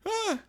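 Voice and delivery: high, frightened squeak of a yelp; a tiny terrified yelp; startled yelp. Retold or imitated. Gun pointed at his face.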